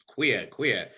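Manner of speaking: put-on mother's thick Boston accent. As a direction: say it like a Boston mom. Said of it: "with the thick Boston accent".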